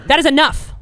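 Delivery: mock firm. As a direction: cut the doctor off sharply. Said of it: "I'm like".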